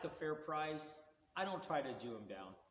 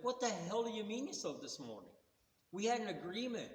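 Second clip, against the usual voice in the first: higher-pitched indignant protest; mildly acted outrage, pitch raised; angry retelling; 6 semitones higher than usual. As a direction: retell it as a pissed-off complaint. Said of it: "I was pissed".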